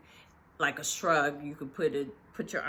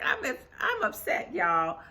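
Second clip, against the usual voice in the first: high, amused mock complaint; imitated upset; 5 semitones higher, 3 dB louder than usual. Sutton tells the ladies she is upset, high mock upset. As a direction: mimic her upset with a laugh in it.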